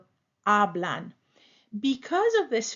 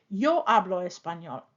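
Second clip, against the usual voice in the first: "Yo" hit first and firm, the rest falling; stress on yo; 2 semitones lower than usual. Shown as a demonstration. Teacher showing an emphatic yo. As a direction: lean on "Yo" to single yourself out. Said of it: "if we want to emphasize".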